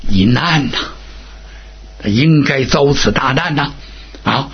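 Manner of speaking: low-pitched elder consoling a king; storyteller's low, soothing elder voice; gentle consoling. A narrator's reading. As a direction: talk him out of grief, low and restrained. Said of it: "天尊劝说了几句".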